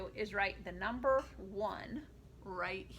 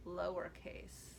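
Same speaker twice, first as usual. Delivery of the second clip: low voice for lowercase; 4 semitones lower, 4 dB quieter than usual. Shown as a demonstration. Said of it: "uppercase and lowercase chant".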